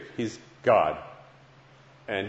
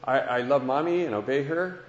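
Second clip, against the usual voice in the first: put-on a touch of a higher child's voice; lightly voiced boy, still guessing; eager little boy; 5 semitones higher than usual. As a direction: son asking his father, a hint of a child's voice. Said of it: "He said".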